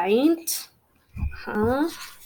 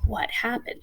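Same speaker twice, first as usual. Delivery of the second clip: whisper; 7 dB quieter than usual. Real, not acted. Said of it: "whispered question".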